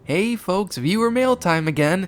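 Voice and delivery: high, loud cartoon host; Pig. A narrator's reading. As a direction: read viewer mail in a high, bouncy character voice. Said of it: "post-credit scene from Pig".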